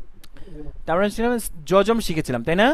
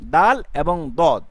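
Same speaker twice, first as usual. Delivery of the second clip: slow contrast; 4 semitones lower, 3 dB louder, much slower than usual. Shown as a demonstration. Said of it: "তারপর একটু দেখুন".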